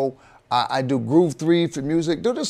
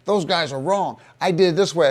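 lightly mocked indignant viewer, a bit raised; know-it-all viewer; 3 semitones higher, 3 dB louder than usual. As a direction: imitate a viewer insisting on his own way. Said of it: "another guy who'll watch our show go like this".

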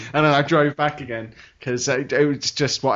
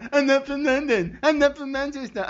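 higher mocking voice of a friend; mocking whine; 11 semitones higher than usual. Mocking his friend's endless complaint, higher whine. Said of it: "It's all I bloody hear".

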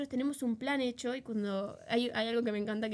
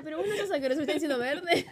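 giggling through a mock quote; laughing quote; 4 semitones higher, 3 dB louder, faster than usual. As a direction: quote her while laughing. Mocking her friend's words. (citando entre risas)

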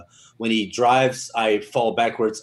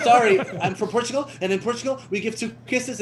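higher, laughing through the excuse; laughing apology; 10 semitones higher than usual. Retold or imitated. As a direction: apologise while cracking up. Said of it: "I'm like".

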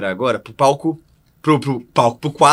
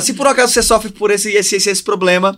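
sales pitch voice; 4 semitones higher than usual. Shown as a demonstration. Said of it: "fala assim, ó".

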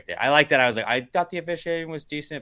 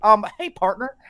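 high, loud caricature white-guy voice; stereotypical white person; 9 semitones higher, 8 dB louder, slower than usual. Retold or imitated. Showing the hacky impression comics do, stereotypical white-guy voice. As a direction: ham up the square politeness. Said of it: "most people don't sound that way".

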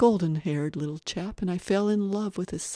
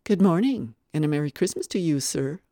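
louder, brisk opening hail; hearty greeting; 5 dB louder than usual. Acted. Guest greeting the little boy at Christmas, hearty. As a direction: greet him heartily, easing off at the end.

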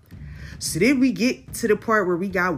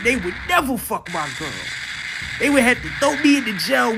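heated quote of Hassan; 5 semitones higher than usual. Retold or imitated. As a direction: build from a firm claim to a shouted outburst. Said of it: "he basically says".

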